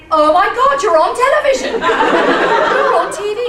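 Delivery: loud, high-pitched amazed exclamation; retold excited shout; excited husband. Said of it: "he comes running into the bedroom".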